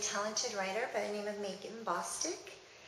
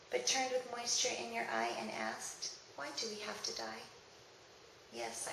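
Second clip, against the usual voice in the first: reflective poem reading. Acted. Reading a poem remembering a lost child, reflective recital. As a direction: linger between verses, let the refrain sink.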